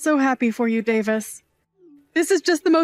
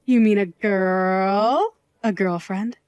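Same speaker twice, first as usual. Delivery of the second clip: can't believe he's bringing someone home; surprised questions; 2 semitones lower, slower than usual. Acted. Aunt learning her nephew has a girlfriend, rising surprise.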